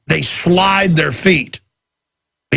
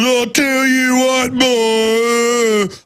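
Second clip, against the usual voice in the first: high, slow, stretched-out redneck drawl; hammed-up redneck accent, vowels held long; mock a good old boy outdoing his buddies in redneck; exaggerated redneck; 8 semitones higher, much slower than usual. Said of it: "rednecks will talk more and more redneck".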